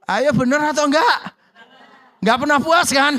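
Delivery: preacher rousing the congregation; calling out. Real, not acted. Pengkhotbah berseru ke jemaat. (seruan lantang ke jemaat)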